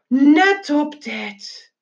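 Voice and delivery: NET punched high, the phrase drawn out; slow, weighty "Net op tijd"; dramatic emphasis. A narrator's reading. Narrator underlines a narrow escape.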